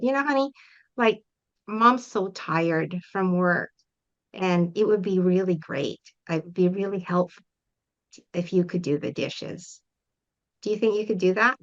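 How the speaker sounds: a tired mom gently asking for help with the dishes; gentle request. Retold or imitated. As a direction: coax the kid kindly instead of scolding. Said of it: "that's different conversation than getting mad".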